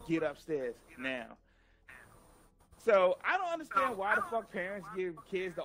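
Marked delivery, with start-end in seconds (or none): 0.1-1.4 low, slow, menacing order; mock a mother's ominous low command. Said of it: "evil look. She's like".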